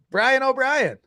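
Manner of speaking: mock Irish greeting; Irish accent. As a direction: put on a singsong Irish brogue. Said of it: "are you from Ireland?".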